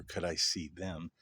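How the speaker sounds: ordinary talk, nothing marked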